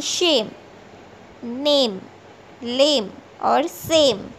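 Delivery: शेम, नेम, लेम, सेम with long "ay", ending on the m; long A, silent E. Shown as a demonstration. Teacher showing the silent final E, शेम to सेम with long vowels. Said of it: "उच्चारण लंबा होता है".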